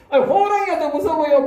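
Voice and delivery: high, laughing punch on 호랑이가; mock-incredulous, a laugh in the voice on 호랑이가; laughing rhetorical question. (호랑이가에 웃음 섞인 높은 강조)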